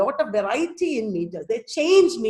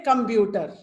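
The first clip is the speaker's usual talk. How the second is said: Malayalam-style "computer", all syllables on one pitch; quick, even "computer" as Malayalam speakers say it; Malayalam accent; 2 semitones lower than usual. Shown as a demonstration. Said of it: "No pitch difference".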